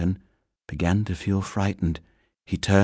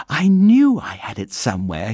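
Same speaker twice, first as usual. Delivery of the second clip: thankful; 4 dB louder than usual. Acted. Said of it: "he said thankfully".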